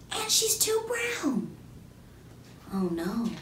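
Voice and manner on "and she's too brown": slow, soft, unkind schoolyard whisper; mean whispering kids. A narrator's reading. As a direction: whisper behind her back. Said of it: "the other kids whispering".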